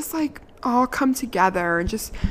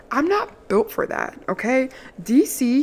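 high protest; 5 semitones higher than usual. Real, not acted. Protesting about snow.

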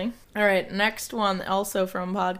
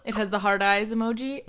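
trying not to laugh. Real, not acted. Keep a straight face.

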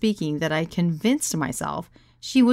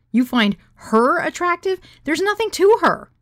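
squeaky disbelief; 12 semitones higher, 6 dB louder than usual. Acted. Woman questioning his attraction, incredulous squeal. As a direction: climb higher as the disbelief builds.

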